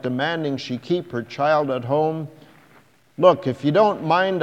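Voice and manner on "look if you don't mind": louder, curt and irritated; cross. A narrator's reading. Man telling the girl to leave him alone, louder and cross. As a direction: brush her off crossly. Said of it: "I said crossly".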